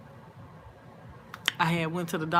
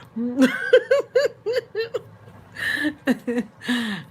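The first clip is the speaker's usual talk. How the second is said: loud laugh; 8 semitones higher, 6 dB louder than usual. Real, not acted. Big laugh mid-story.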